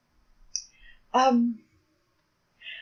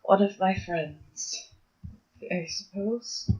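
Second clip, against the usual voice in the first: resigned sigh; 3 dB quieter, slower than usual. Acted. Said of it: "Amelia sighs and goes".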